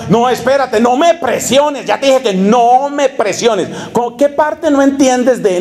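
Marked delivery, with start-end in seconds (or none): 0.1-3.7 higher, slow, whiny mock boyfriend; mock evasive boyfriend. Boyfriend brushing off his girlfriend, slow mock whine. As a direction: drag it out, evading pressure. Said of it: "el hombre decía".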